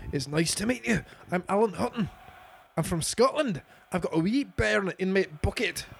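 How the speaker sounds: put-on a second go at a Scottish accent, still light; better Scottish accent. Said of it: "I can do better Scottish".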